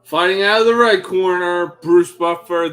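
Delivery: Bruce Buffer. Pretend. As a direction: call it like a fight-night announcer. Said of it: "There's nobody better in the business".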